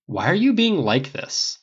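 mildly irritated, stretching the question; a little irritated. A narrator's reading. Harris complaining to a dismissive Tony, a little irritated. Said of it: "then a little irritated".

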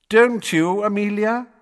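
high, loud smirking taunt; mock her with a smirk. A narrator's reading. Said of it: "still smirking".

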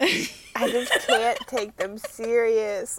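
slow, half-crying laughing can't; laughing defeat. Real, not acted. Giving up on the group, slow laughing defeat. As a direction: drag it out laughing.

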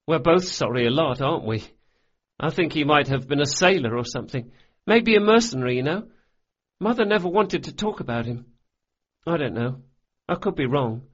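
put-on a boy rushing through sad facts; high boyish voice, a touch sad; boy's voice. Locke speaks of his father.

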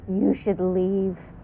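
slow, menacing creature voice; a slow, hollow monster warning. Acted. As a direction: speak slowly as the many-voiced monster. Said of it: "And it says".

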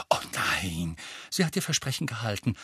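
satisfied. Acted. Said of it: "fügte Hermine zufrieden hinzu".

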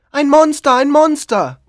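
loud, high panicked cries; terrified villagers crying out; crowd shouting. Retold or imitated. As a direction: yell it out like a frightened crowd. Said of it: "rufen sie".

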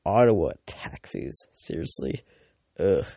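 disgusted scoff. Retold or imitated. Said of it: "then it's like".

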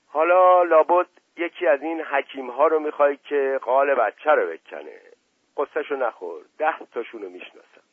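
put-on knowing, jokey older man; playful worldly uncle; Asadollah Mirza voice.

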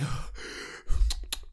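exaggerated winded breathing; demonstrated breathing. Shown as a demonstration. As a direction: puff and blow as if out of shape. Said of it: "bullshit on my fucking breath".

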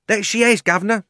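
high, loud heckler; jeering onlooker. A narrator's reading. Onlooker egging on the fat man, loud and high. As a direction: call it out from the crowd.

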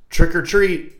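put-on boy saying it after the candy, high and loud; kid voice. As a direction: blurt it like an eager boy.

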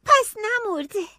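high, loud, slow disbelieving question; can it be true?; hopeful surprise. Acted. Child relieved brother alive. (با تعجب و امید)

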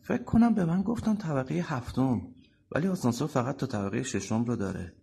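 starts high, as if just remembering; sudden recollection. Acted. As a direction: speak up as something suddenly comes back. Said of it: "انگار یهو چیزی یادش بیاد".

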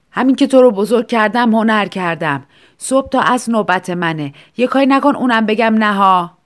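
mother scolding loudly from bed; loud, grumpy refusal; annoyed loud mother. Acted. Mother scolds her child who woke her, loudly.

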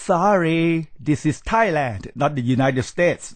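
firm rebuke. Acted. Lecturer rebuking a rude returnee, firm and deliberate. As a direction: put the brash returnee firmly in place, Thailand falling hard. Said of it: "ก้าวร้าว แล้วก็ไม่รู้ที่ต่ำที่สูง".

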